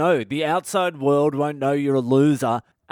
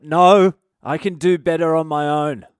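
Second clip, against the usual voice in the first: mock defiant outburst; 3 semitones higher, 7 dB louder than usual.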